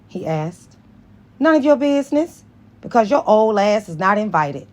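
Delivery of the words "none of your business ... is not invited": retort. Acted. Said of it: "Carol retorted".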